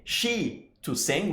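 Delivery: slow, soft "she to sing"; wrong form, slowed. Shown as a demonstration. Teacher contrasting wrong and right forms, slow and soft. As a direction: drag out the broken version. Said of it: "we don't say".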